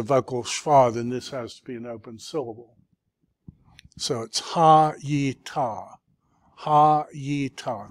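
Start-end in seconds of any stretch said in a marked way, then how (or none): 4.0-6.0 "ha, yi, ta" as three separate beats; teacher repeats the syllables slowly for the student, each one apart. Shown as a demonstration. Tutor splits the word into syllables, one beat each. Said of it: "Three syllables". 6.6-7.9 "ha, yi, ta" as three separate beats; teacher repeats the syllables slowly for the student, each one apart. Shown as a demonstration. Tutor splits the word into syllables, one beat each. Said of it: "Three syllables".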